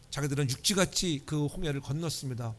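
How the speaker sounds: normal talking voice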